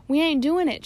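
high, loud protest; shout. Acted. Pirates answering Stash, high loud shout. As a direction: shout back at the captain. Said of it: "shouted the pirates".

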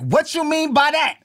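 high, slow mock wife challenge; imitating suspicious wife. Husband mimicking his wife's suspicious reply. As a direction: squeak it up like the wife who heard an insult. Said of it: "she gonna be like".

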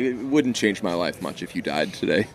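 understated, offhand retelling; matter-of-fact. Retold or imitated. Retelling a host's friendly jab, matter-of-fact. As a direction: toss it off as plain fact. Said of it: "very matter of fact".

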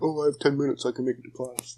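put-on high, carefree kid voice; imitating an overconfident kid; mock naive kid. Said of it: "They're like".

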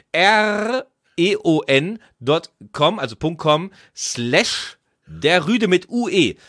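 slow letter-by-letter spelling. Shown as a demonstration. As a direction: spell the address out slowly. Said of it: "ich buchstabiere das nochmal".

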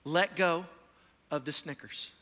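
put-on measured, calming words to a child. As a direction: talk a panicking boy down, pausing between phrases. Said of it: "He looks at him very calmly".

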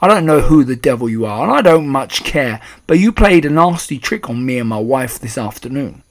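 loud, indignant accusation; rude and angry. A narrator's reading. Father demanding his hidden son from grandmother, rude and angry. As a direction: build up to an emphatic demand. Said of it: "He spoke rudely and he looked very angry".

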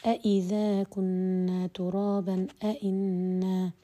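أإذا كنا ترابا أإنا drawn out slowly, each hamza set apart; a teacher slowly reciting the Quranic example; slow recited example. Shown as a demonstration. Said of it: "مثل".

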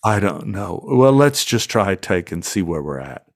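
weary, eye-rolling resignation; exasperated. Retold or imitated. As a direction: sigh it out, unimpressed. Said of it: "rolling his eyes".

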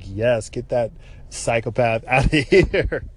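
laughing through a retold cheer; amused good riddance; gleeful riddance. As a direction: break into a laugh midway, slowly drawn out. Gleeful retold reaction, breaking into laughter.

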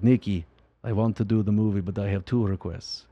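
low, soft impression of an older actor; Walter Koenig. Imitating the actor making requests to his director, low soft voice. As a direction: drop the pitch, make a quiet request. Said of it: "he's like".

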